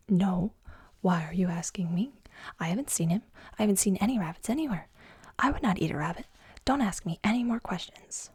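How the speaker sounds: flustered, rushed defensive whisper breaking into voice; a guilty bear snapping back too fast; half-voiced nervous protest; defensive denial. Guilty bear denies eating rabbit.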